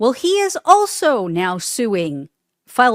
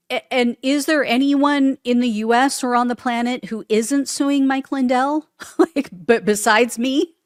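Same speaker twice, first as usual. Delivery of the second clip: incredulous laugh; 4 semitones higher than usual. Real, not acted. Host mocking how many people sue Lindell. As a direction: laugh at the absurdity.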